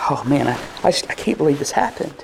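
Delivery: quiet, fast, mopey mumble; mock mopey sigh. Mock Jesus sighing over Lazarus, quiet and fast. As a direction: mumble it like a sad sack. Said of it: "he's sitting over there going".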